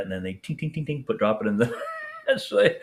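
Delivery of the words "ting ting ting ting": quick little voiced tings; imitated metallic clinks. Imitating shrapnel pulled out and dropped, metallic clinks. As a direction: mimic metal bits dropping in a dish. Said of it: "you could hear it kind of scraping".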